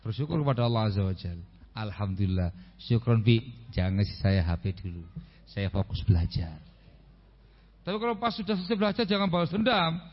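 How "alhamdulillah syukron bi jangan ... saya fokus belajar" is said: put-on lower, earnest child declining the phone; grateful child. Child tells father he will focus on studies, earnest and lower. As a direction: play the dutiful child thanking father.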